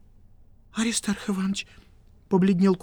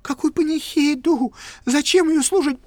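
alarmed; 8 semitones higher, 4 dB louder than usual. Acted. Kuvaldin alarmed question.

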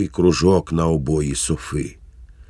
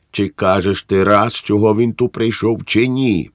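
louder, sharp demand with fists clenched; wife's impatient demand; impatient interruption; 4 semitones higher, 4 dB louder than usual. Acted. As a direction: cut him off, pressing for an answer. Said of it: "перебила його Ривка, стискаючи кулаки".

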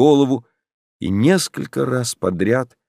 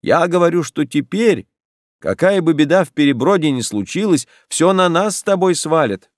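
higher and louder, repeating for a deaf ear; speaking up loudly; 7 semitones higher, 3 dB louder than usual. A narrator's reading. Olesya repeating loudly to her half-deaf grandmother, raised voice. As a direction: say it again, loud and clear.

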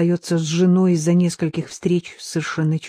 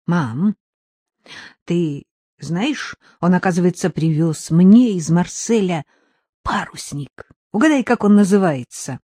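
put-on young boy voice; 5 dB louder than usual. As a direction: chirp it like an excited kid. Narrator voices young son.

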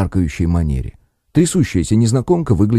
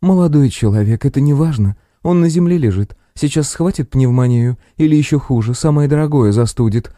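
lecturing like a schoolteacher; teacher's tone; 6 semitones higher than usual. Acted. Paramedic lectures the colleagues about the patient, teacherly. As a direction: scold them as a teacher would. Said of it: "учительским тоном поведала фельдшер".

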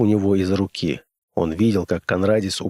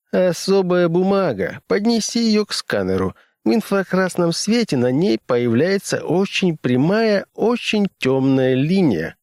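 character voice; 10 semitones higher than usual. Acted. Fredericks voiced by narrator.

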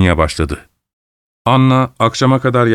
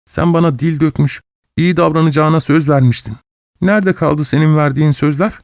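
higher, tight reproach; wife reproaches husband through clenched teeth; 6 semitones higher than usual. Acted. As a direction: force it out through gritted teeth. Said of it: "dişlerinin arasından konuştu".

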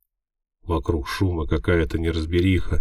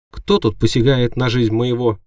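high, louder squeak of a little imp; squeaky imp; 6 semitones higher, 6 dB louder than usual. A narrator's reading. Imp bursting in to defend her master, high squeak. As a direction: squeak it out like an indignant tiny demon. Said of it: "пропищала она".

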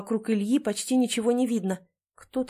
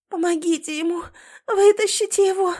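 high, rising, then loud; wife begging medics to pull her husband out; frantic plea; 9 semitones higher, 6 dB louder than usual. A narrator's reading. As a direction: beg the rescuers frantically. Pleading with rescuers.

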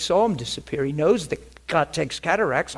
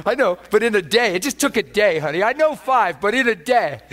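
high voice for wife; 5 semitones higher, 4 dB louder than usual. Retold or imitated.

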